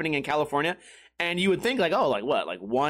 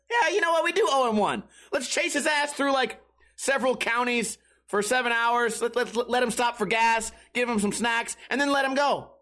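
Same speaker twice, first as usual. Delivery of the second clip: higher-pitched, eager mock cop; scheming cop; 6 semitones higher than usual. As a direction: play a cop talking colleagues into it. Acting cops agreeing on a scheme.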